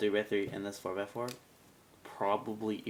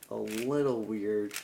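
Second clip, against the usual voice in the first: tag; 5 dB louder, slower than usual. Real, not acted. Drawn-out emphasis on odd feel.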